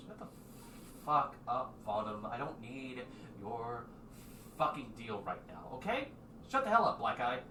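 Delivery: put-on snapping at the old dwarf to shut up; irritated snap. Zig telling off the dwarf, mildly annoyed.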